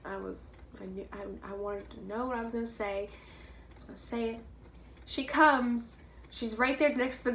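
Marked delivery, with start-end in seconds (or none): 3.1-4.4 unvoiced, under the breath; whispered. Real, not acted. Telling viewers her plan, in a whisper.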